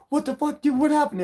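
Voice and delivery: high-pitched incredulous questioning; retold shocked friend. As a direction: act out a baffled friend demanding answers.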